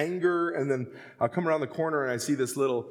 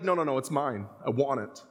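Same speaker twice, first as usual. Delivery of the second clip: put-on childish refusal; 4 semitones lower than usual. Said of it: "And we're like".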